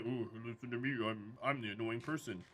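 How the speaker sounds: low, quiet mocking voice; annoying person voice. Shown as a demonstration. Showing chat an annoying person's voice, low and quiet. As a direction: put on a low, smug annoying voice. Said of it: "talk like somebody who annoys you".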